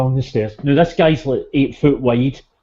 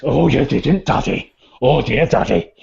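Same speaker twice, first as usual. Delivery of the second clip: mock dismay; 3 dB louder than usual. Haystacks reacting louder.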